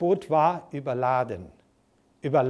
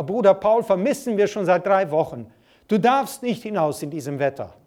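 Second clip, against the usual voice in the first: mother calling her son back from the sea, raised and pleading; calling out loud; 3 dB louder than usual. Retold or imitated. Mother begging her son not to go out, a mock loud call. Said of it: "fing an, laut zu rufen".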